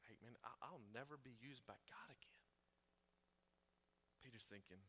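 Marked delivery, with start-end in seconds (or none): 0.1-2.4 soft unvoiced whisper; whispered despair. Peter whispering that God is done with him. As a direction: confess your hopelessness under your breath. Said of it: "Peter's feeling like".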